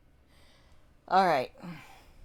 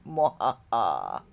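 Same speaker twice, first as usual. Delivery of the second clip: mad scientist; 9 semitones lower, slower than usual. Acted. Evil laugh after joke.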